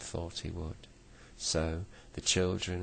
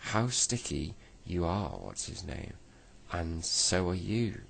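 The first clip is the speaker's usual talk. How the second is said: yelled. Acted. Angry neighbour yelling at Moonface about the syrup. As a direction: snap at the sticky neighbour. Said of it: "yelled What's-his-name".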